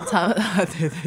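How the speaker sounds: words through fading laughter; after laughing hard. Real, not acted. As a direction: still laughing, barely holding it in. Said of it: "笑到肚子痛".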